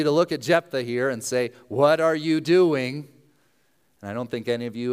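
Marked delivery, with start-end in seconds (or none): 1.7-3.1 mock disbelief. Acted reproach to Jephthah.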